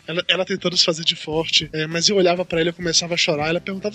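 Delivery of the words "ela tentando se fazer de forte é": normal talking voice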